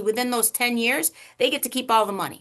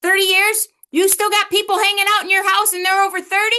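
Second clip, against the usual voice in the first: mock disbelief; 9 semitones higher, 7 dB louder, faster than usual. Mock shock at grown kids home.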